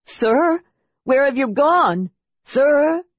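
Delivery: high, panicked calling out; frantic. A narrator's reading. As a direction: call after someone who has suddenly vanished. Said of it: "frantically pawing the empty air".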